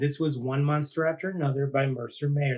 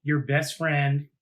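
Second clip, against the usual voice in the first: storybook narration. A narrator's reading. Host reading Sally Ann's letter to Lucy Jane, gentle storytelling. Reads closing letter scene.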